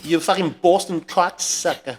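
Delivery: slow mock Boston insult; Boston accent. Shown as a demonstration. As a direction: growl it like a Boston tough.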